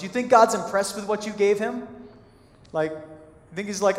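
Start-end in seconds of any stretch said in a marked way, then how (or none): 0.0-1.9 sarcastic jab. Retold or imitated. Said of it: "a little sarcasm in his voice".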